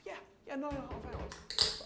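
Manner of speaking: high-pitched, lightly acted insistence; matter-of-fact caller. Acted caller confirming to astonished programmer.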